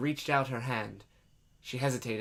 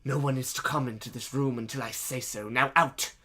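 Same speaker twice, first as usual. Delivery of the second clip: demanding. Acted. Man sends robed men away, demanding. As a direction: lay down the rule, then punch the dismissal. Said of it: "he demanded".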